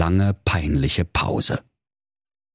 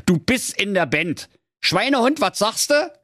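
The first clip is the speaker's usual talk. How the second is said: higher-pitched donkey character; bossy donkey; 11 semitones higher than usual. Acted. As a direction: talk like a donkey recruiting his band. Figure of the donkey in fiction. (Esel als Bandchef, höhere Stimme)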